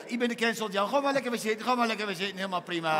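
veel hoger en luider, overdreven presentator; hammed-up host. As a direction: speel een overenthousiaste presentator. Quizmaster host voice. (overdreven hoge quizpresentator)

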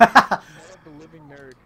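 booming slow title announcement; movie trailer voice. Acted. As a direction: announce it like a horror film.

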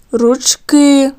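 ручки with a long stressed final КИ; stress on last syllable. Shown as a demonstration. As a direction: lean on the end of ручки to show the stress. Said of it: "де стоїть наголос".

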